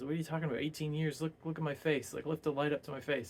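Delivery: mock-baffled, voice lifted in protest. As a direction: act out a lightly incredulous denial. Retold quote of baffled Dorian protesting.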